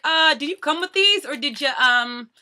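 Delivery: imitated cashier, high and questioning; puzzled cashier. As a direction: mimic a hesitant checkout girl. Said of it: "The girl's like".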